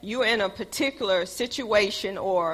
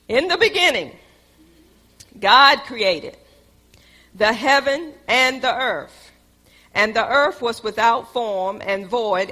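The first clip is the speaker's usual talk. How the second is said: booming biblical narration. Acted. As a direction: proclaim each phrase with long pauses. Reads Genesis aloud.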